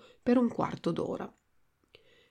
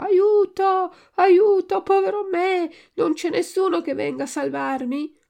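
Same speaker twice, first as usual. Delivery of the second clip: high, loud wail, easing toward the end; wailing cry for help; 10 semitones higher, 8 dB louder than usual. A narrator's reading. Trapped puppet cries out for someone to save him, wailing. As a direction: cry out shrilly for rescue, then let it sink a little. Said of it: "cominciò a piangere e a strillare".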